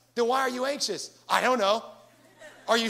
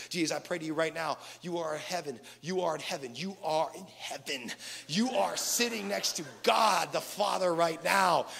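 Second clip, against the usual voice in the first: mock weird prayer voice; 4 semitones lower than usual. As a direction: parody anxious churchy praying. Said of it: "We start saying words that we never said before".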